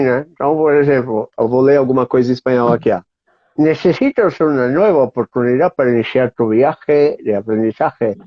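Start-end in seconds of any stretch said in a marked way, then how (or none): 3.6-8.2 reading with a pencil in the mouth; pen in teeth. Shown as a demonstration. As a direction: speak around a pencil held in the teeth. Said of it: "vou até pegar um lápis aqui".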